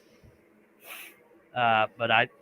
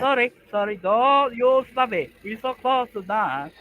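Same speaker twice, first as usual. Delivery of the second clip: high, louder mock Asian accent; hammed-up Asian accent, slowed; 11 semitones higher, 5 dB louder than usual. Streamer in a mock Asian accent urging his friend. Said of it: "from a German accent to Asian, trying to speak English".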